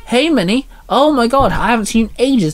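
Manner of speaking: high, fast gushing receptionist; excited blurt. A narrator's reading. Receptionist blurting to old friend Minnie, high and excited. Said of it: "the receptionist blurted".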